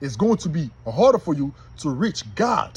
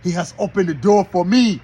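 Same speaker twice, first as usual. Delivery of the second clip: gloating devil; 4 dB louder than usual. Acted. Devil gloats over the man who opened the door, hammed-up. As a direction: crow like a devil who has caught his prey. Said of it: "Now the devil like".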